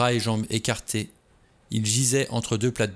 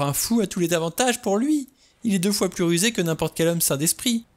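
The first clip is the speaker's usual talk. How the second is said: high, urgent insistence; worked-up, rising alarm; agitated argument; 8 semitones higher than usual. A narrator's reading. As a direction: hammer the point home frantically. Vera argues frantically with Lombard.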